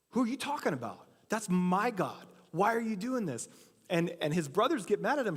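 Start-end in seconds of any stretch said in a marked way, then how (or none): 0.1-3.5 pitched up, indignant cry of disbelief; a young shepherd bristling, defending his God; indignant outburst. Retold or imitated. David indignant at Goliath's taunt, voice jumps higher.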